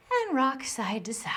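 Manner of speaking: soft whispered instruction; whispered cue. Real, not acted. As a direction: whisper it gently as they rest. Gentle cue while resting.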